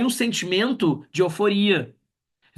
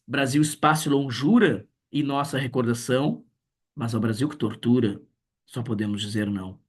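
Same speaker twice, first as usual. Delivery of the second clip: poem recital. Acted. Reads Brasil 1977 poem. (recitação que termina grave e baixa)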